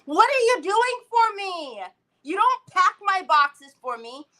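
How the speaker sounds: loud, high, indignant rant; aggravated venting. Real, not acted. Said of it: "I'm so aggravated".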